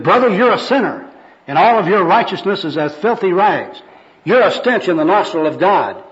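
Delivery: high, forceful sermonizing; zealous street evangelist. Acted. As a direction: preach it hard at the sinner. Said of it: "This is the first personal worker".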